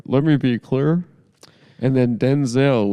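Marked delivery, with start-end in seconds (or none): 0.1-1.0 lightly voiced presidential catchphrase; Barack Obama. Co-host recalling a club comic's act, light presidential impression. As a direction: imitate an impressionist's stock president line. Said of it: "Barack Obama was like".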